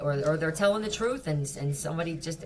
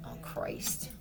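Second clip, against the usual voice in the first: Christ breathed out almost silently; whispered Christ; 11 dB quieter than usual. Real, not acted. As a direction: mutter Christ under your breath. Whispered then repeated aloud.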